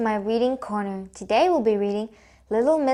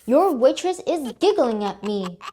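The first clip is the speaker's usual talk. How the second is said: grumbling; 3 dB louder than usual. Acted. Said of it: "grumbled Mister Grumble".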